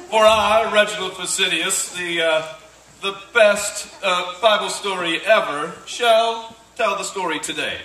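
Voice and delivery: grand self-important proclamation; pompous actor. Acted. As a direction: boom it out like a vain stage actor. Hammy actor proclaiming himself.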